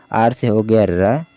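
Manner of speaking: letters drawn out slowly, one by one; slow sounding out. Shown as a demonstration. Teacher sounding out letters for students, slowly. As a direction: spell it out slowly for beginners. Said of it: "ए को किससे पढ़ना है?".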